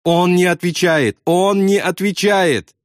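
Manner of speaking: high, wailing despair; lightly tearful high cry, slowing down; sobbing. A narrator's reading. Pilot fears for silent bombardier, wailing sob. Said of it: "прорыдал Добс".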